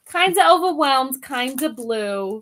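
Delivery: hammed-up New Jersey accent; playful mock New Jersey accent; stereotypical New Jersey accent. Shown as a demonstration. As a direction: put on a broad New Jersey accent, drawing out the end. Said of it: "very stereotypical New Jersey accent".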